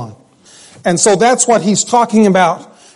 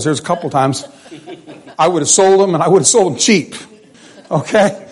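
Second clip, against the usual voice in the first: laughing joke; 2 semitones lower, faster than usual. Real, not acted. Joking about selling his boys.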